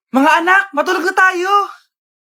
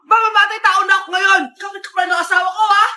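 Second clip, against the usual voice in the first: furious shout; 3 semitones higher, 3 dB louder than usual. Acted. Mother furious at the neighbor.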